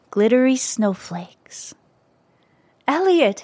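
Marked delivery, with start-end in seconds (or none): 2.9-3.4 shouting. A narrator's reading. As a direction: call the name after someone gone. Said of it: "he shouted".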